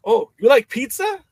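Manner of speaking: high, loud, eager question; eager host. Retold or imitated. Local promoter asking the American guest, high and eager. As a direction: offer it up like a beaming host. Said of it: "they're like".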